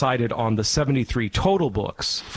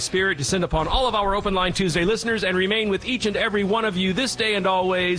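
higher, quick, solemn benediction cadence; prayer blessing; 6 semitones higher than usual. Acted. Priest blesses the radio listeners at show's end, solemn prayer voice. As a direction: intone a blessing over the listeners, briskly.

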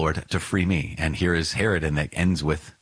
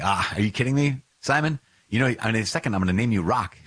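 teasing mock voice; 4 semitones higher than usual. Joking mock version of Jesus.

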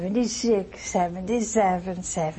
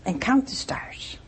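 hushed whisper; 8 dB quieter than usual. Acted. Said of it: "and he says".

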